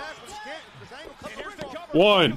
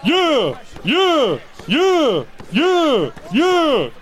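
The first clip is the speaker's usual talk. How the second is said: yelling at the tv; 8 semitones higher, much slower than usual. Real, not acted. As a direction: cheer at the screen, full voice. Cheering at wrestling match.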